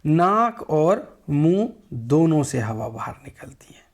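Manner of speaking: whispered demo, breath through nose and mouth. Shown as a demonstration. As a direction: breathe the words out unvoiced, slowly.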